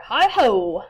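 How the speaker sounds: calling out. Acted. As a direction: call out from the doorway. Hare calls at door.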